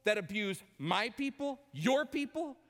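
high, incredulous protest; indignant Jonah. Acted. Jonah protesting God's command, indignant and incredulous. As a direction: refuse the order in disbelief. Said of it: "And Jonah goes".

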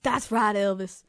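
Impression of a pop star sliding into a Southern accent; lightly put-on Southern US accent; Southern slip.

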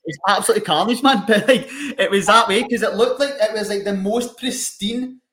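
cracking up while describing the chaos; laughing. Real, not acted. Laughing to his mate about the wild night, real laughter.

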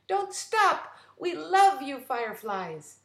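high, loud cheer. Acted. The captain cheers on the fireflies, loud and happy. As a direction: call out to the sky.

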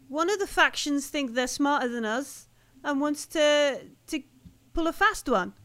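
suspicious woman. Acted. Game master voices station woman.

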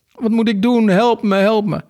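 high, desperate story-character plea; panicked pleading. A narrator's reading. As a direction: beg for help in a very high voice. Sinking character begs for help. (hoog, paniekerig smekend)

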